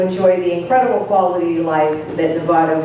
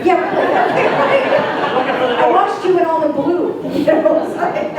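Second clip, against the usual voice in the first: laughing through the words; chuckling as she teases; 9 semitones higher, slower than usual. Real, not acted. Teasing chief about hiding.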